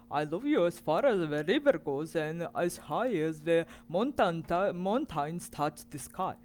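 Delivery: loud, fast, lightly voiced critter; loud eager little bear; character voice. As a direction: blurt it out big and quick.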